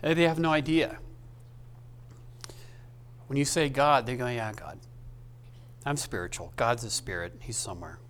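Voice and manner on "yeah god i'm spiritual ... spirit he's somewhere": dismissive shrug. Retold or imitated. Dismissive people quoted about God.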